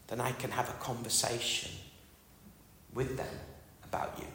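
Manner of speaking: hushed, unhurried talk to God; quiet prayer. Retold or imitated. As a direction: pray it softly, leaving long pauses. Recites his personal prayer aloud.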